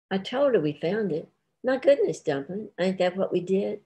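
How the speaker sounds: high, mock-surprised my goodness; feigned innocence. Wife feigning innocence to her husband about the love seat, high and coy. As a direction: play it sweetly innocent.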